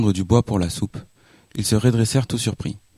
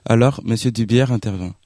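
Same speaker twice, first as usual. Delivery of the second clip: ordinary delivery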